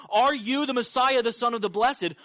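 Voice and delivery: pointed interrogation. Retold or imitated. Caiaphas questioning Jesus before the Sanhedrin, pointed interrogation. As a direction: put the question forcefully, as if interrogating.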